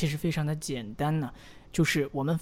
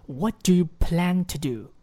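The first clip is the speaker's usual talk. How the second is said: slow, every word clear; slow careful model; 3 dB louder than usual. Shown as a demonstration. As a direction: read it slowly for the learner to copy. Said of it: "那再听我读一次". (慢速示范朗读)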